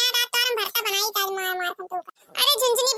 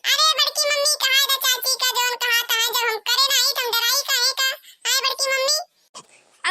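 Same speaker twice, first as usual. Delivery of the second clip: put-on child voice. Kallu answers aunt.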